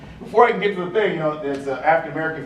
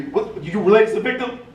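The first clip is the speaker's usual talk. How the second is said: sergeant yelling; 8 semitones higher than usual. Retold or imitated. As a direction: snap it out suspiciously. Sergeant interrogates narrator.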